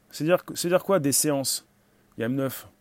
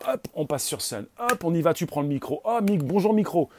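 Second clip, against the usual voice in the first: put-on childlike delight, mostly higher pitched; excited child; 4 semitones higher than usual. Host acts out coming on stage like a child, excited child. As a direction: play a thrilled kid discovering the mic. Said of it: "comme un, comme un enfant".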